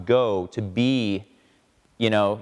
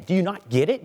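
pleading father; 6 semitones higher than usual. Retold or imitated. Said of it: "the father pleads with him and says".

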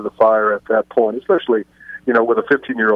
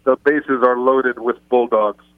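slow, imitated Hispanic-accented announcement; slower than usual. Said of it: "with a Hispanic accent".

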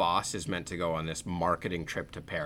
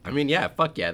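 excited; 5 semitones higher, 4 dB louder than usual. Real, not acted. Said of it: "I was like".

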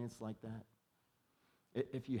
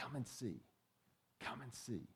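soft invitation; 7 dB quieter than usual. Retold or imitated. Andrew inviting his brother.

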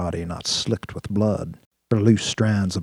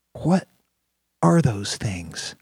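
startled; 3 semitones higher, much slower than usual. A narrator's reading. Tara shocked by robofoxes.

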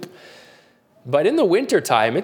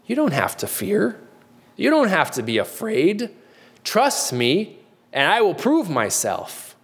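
gentle reassurance; 5 semitones higher than usual. Retold or imitated. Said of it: "his response is".

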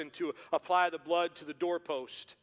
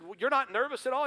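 surprised Jones; 8 semitones higher, 5 dB louder than usual. Retold or imitated. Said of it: "And he said".

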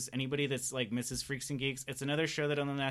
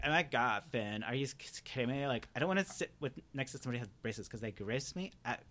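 put-on fast, snooty valley girl whine; spoiled cartoon princess, disgusted; Lumpy Space Princess; 4 dB quieter than usual. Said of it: "She sounds like, um, Lumpy Space Princess".

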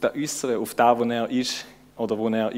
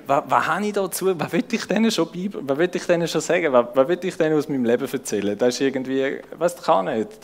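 higher, tense, rushing self-doubt; panicky self-doubt; 3 semitones higher than usual. Retold or imitated. Preacher replaying his nervous thoughts about speaking at a school, pitched up and anxious. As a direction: voice your own panic as it spirals. Retold panic before giving sessions.

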